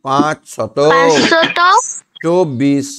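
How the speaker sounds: slow teaching read-out. Shown as a demonstration. Teacher shows the pupil how to say the number, slowly. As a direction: pronounce সাঁইত্রিশ হাজার slowly as one number. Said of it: "একসঙ্গে উচ্চারণ করব".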